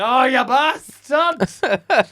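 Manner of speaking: slow, loud, high cry of outrage; loud, slow mock-outraged yell at the emptied tent. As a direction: drag it out in mock fury. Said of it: "and it's like".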